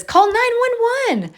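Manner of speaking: high, slow, squawky bird voice; parrot voice. Retold or imitated. Pet bird trained to call for help, high parrot voice. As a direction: drag it out like a parrot. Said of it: "And he says".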